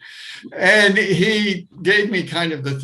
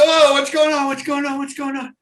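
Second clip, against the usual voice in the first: high, fading confused cries; lost in fright, repeating the question; bewildered panic; 11 semitones higher, 5 dB louder than usual. Retold or imitated. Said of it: "I really look like".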